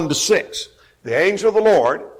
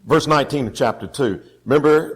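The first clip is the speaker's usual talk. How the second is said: ordinary delivery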